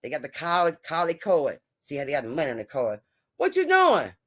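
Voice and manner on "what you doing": mock date voice. Acting out restaurant exchange.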